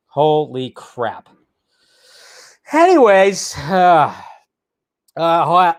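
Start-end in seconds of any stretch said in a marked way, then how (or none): 0.1-1.3 slower, drawn out in awe; slow stunned. Real, not acted. Vlogger repeating himself, slow stunned awe. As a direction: stretch each word in disbelief.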